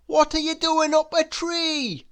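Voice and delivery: high-pitched inquisitive character voice; puzzled Mister Happy. A narrator's reading. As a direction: ask it high, in bewilderment. Mister Happy questions the stranger.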